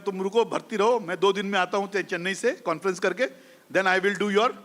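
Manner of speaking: lightly imitated South Indian accent; a hint of Tamil doctor's accent; Doctor Lakshmi Narayan's South Indian accent. Eye doctor asking his patient to stay admitted, in a light South Indian accent. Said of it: "अपना south Indian accent में बोला कि".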